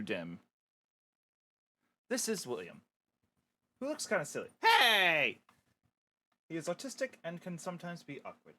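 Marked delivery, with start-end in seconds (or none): 4.6-5.4 excited hey. Acted. William greets camera.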